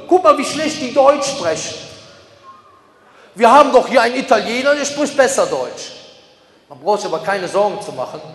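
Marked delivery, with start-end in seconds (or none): 0.1-5.9 mock agitator. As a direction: play someone pointing out others' faults, indignant. Voicing anti-Islam forum agitators.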